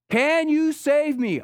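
high, loud and slow begging; a man hanging from a limb pleads loudly; desperate plea. Retold or imitated. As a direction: beg to be saved. Falling man pleads with God.

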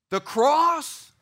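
usual speaking voice

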